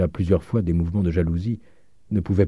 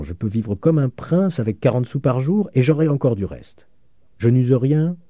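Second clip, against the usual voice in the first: vieux père attendri, voix un peu plus haute; légèrement joué, un père fier et ému; père Goriot ému; 4 semitones higher than usual. Acted. Goriot parle à ses enfants. (vieux père attendri, voix un peu plus haute)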